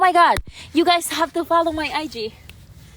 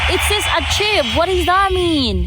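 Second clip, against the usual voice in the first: excited; 6 semitones higher than usual. Real, not acted. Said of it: "I'm getting excited here".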